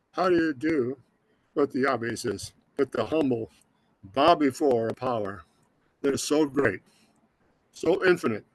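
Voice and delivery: holding back tears, long halting pauses; real emotional. Real, not acted. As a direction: overcome with gratitude, struggling to stay composed. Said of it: "Sorry for being emotional".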